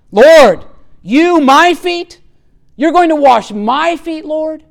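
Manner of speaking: high, loud, shocked protest; emphatic protest. Retold or imitated. Peter recoiling as Jesus comes to wash, shocked. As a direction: stress "you" and "my" in disbelief. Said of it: "it's very emphatic in the Greek text".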